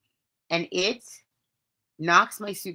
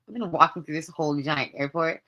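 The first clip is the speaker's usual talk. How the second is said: ordinary delivery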